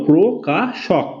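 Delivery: "প্রো কা শক" in three spaced parts; syllable-by-syllable. Shown as a demonstration. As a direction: sound out "প্রো", "কা", "শক" one at a time. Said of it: "কি হলো".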